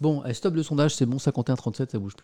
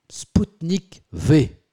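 very slow, louder "Sputnik V"; slow, louder headline announcement; drawn-out announcement; 5 semitones higher, 6 dB louder, much slower than usual. Acted. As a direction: stretch the name out like a headline. Announces next topic.

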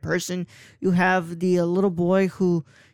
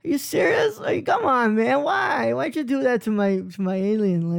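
much higher, squeaky indignant whine; mock outrage; 5 semitones higher than usual. Elliot complaining that his alien got a makeover, high mock whine. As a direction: play the betrayed kid, voice jumping up. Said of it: "He's like".

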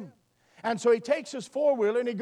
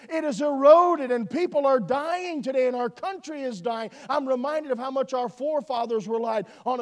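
emphatic preacher's delivery, pressing each point; preaching; 3 semitones higher than usual. Real, not acted. Preacher urging the congregation with rising force.

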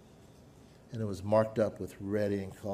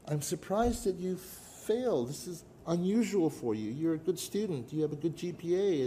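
voicing the dean; 6 semitones higher than usual. Dean voiced kindly.

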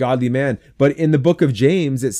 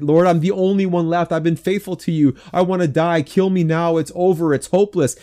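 exaggerated despair; 6 semitones higher than usual. Despairing prophet to God, in hammed-up self-pity. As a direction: mock-desperate lament, pitched high. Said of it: "it's just that exaggeration".

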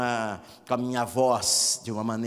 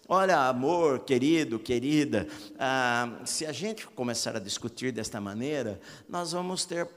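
gentle calm tone. Shown as a demonstration. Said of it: "falar algumas coisas boas".

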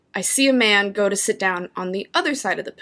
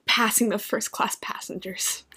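hushed narration; whispering; 8 dB quieter than usual. Retold or imitated. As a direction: breathe it out secretly. Sneaking past first class.

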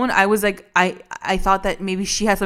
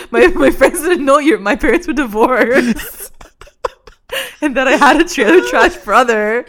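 higher, louder whine through laughter; laughing mock daughter rant; mock teen whine laughing; 5 semitones higher, 3 dB louder than usual. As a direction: complain like an embarrassed teen while laughing.

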